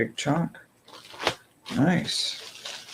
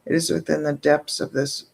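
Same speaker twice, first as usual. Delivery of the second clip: measured ceremonial reading voice; solemn invocation to the night goddess; ritual invocation; faster than usual. Acted. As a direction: intone it like an evening prayer. Reads ritual invocation aloud.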